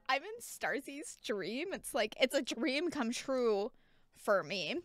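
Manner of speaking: quiet tender delight; soft touched. Real, not acted. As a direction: murmur it, genuinely moved. Touched, soft after dream.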